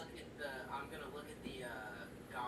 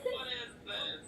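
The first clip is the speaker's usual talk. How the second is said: high, loud, drawn-out creature voice; lizard woman, repeated; 9 semitones higher, 6 dB louder, slower than usual. Acted. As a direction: stretch the question out as the lizard woman.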